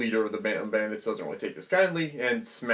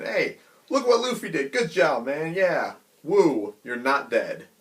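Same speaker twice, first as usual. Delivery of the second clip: cheering pirates; 4 semitones higher, slower than usual. Retold or imitated. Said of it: "afterwards they have a celebration".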